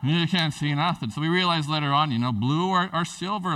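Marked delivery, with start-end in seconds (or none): 0.0-1.1 laughing through the words; amused laughing. Real, not acted. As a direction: chuckle as you say it.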